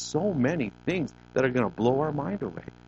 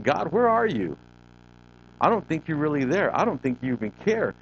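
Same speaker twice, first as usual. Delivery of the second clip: higher-pitched mock plea to God; imitated crying out; 5 semitones higher than usual. Preacher voicing David crying out to God, pleading. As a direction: cry out in David's place, without raising the volume. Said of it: "he's crying out to God".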